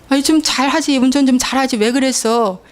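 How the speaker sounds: a touch of a scolding father; mild mock scolding. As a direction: nag like a frustrated father. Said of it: "아빠가 소리 지를 때".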